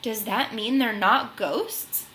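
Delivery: timidly. Acted. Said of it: "Peso asked timidly".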